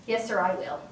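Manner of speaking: low, measured deference; real polite. Retold or imitated. Promising the speaker to comply, very polite. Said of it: "real polite".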